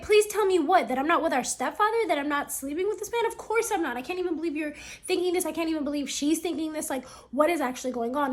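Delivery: high, loud incredulous retort; outraged disbelief. Retold or imitated. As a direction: fire back, stunned and offended. Ida's outraged reply to brother.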